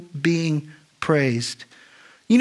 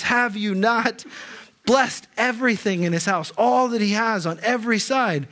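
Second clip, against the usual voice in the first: preacher reading Satan's challenge as a light higher mock; 5 semitones higher than usual. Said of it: "in this mocking tone".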